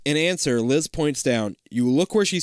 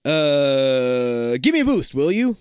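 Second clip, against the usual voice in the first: lightly voiced, pitched-up plea; acted request; 4 dB louder, slower than usual. A narrator's reading. Liz asks you for a boost, acted request. Liz's line acted in story.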